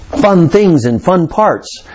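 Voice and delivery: sarcastically drawn-out understatement; sarcastic. Real, not acted. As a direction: draw it out with dry irony. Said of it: "I'm being sarcastic there".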